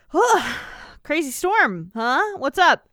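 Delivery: a hint of a seductive nun; mock sultry nun. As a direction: play the nun coyly coming on to him. Mary Eunice flirts with doctor.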